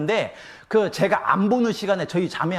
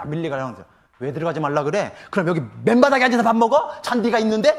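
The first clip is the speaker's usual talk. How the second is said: indignant complaint; 5 dB louder than usual. Retold or imitated. Grumbling objector on the lawn.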